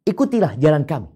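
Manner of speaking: high, loud mock coaxing with ikutilah stressed. Preacher voicing disbelievers luring believers, mock coaxing. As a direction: coax them, leaning on ikutilah. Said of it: "Orang-orang kafir berkata".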